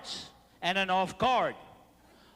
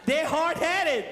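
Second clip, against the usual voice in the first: emphatic shout; 4 semitones higher, slower than usual. Real, not acted. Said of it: "repeated emphatic line".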